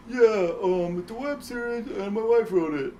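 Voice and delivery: put-on high, hammy Italian accent. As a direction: play the goofy Italian director. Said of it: "Ken Maraschino's like".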